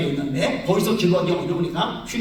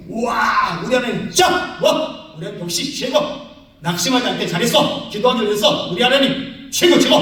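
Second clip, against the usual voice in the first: excited cheering; 3 semitones higher, 3 dB louder than usual. Retold or imitated. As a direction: cheer God like a fan. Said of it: "막 신났어요". (신나서 외치는 환호)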